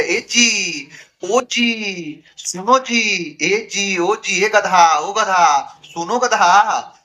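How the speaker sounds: high, slow coaxing calls; sweet coaxing wife. Retold or imitated. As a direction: sweetly call the husband, drawing out each word. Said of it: "अब पति को कह रही है". (नई बहू पति को प्यार से धीमे-धीमे पुकारती हुई)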